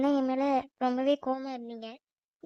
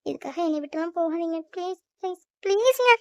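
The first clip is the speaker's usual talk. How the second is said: desperate pleading. Acted. Wife in a nightmare begs her husband not to leave, desperate plea.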